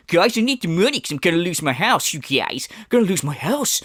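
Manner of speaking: lightly whiny pleading; mock plea. Commentator mocking the streamer's house plea, mild whiny begging. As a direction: beg like a fake victim. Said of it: "you come out in the time go".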